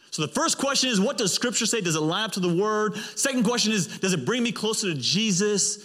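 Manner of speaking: high-pitched, emphatic preacher; fervent preaching. Real, not acted. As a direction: preach it with rising fervour. Preaches with force.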